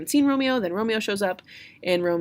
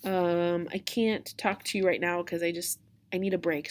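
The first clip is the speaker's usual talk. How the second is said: tired nurse. Retold or imitated. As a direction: lightly play a worn-out old woman. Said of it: "the nurse is like".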